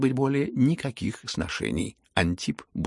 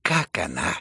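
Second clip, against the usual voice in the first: loud mocking chuckle falling to low; gloating; 3 semitones lower, 3 dB louder, slower than usual. Lizaveta gloats that Aglaya will mock the prince, chuckling. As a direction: relish his coming humiliation.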